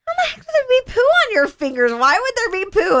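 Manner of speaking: high, fast, frantic questioning; alarmed mom. Retold or imitated. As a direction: rattle off the questions in a panic. Mother's retold alarm.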